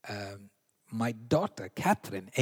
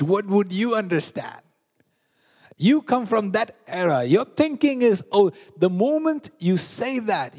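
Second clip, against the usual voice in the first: put-on disrespectful child; 3 semitones higher, 4 dB louder than usual. Preacher acts out disrespectful child.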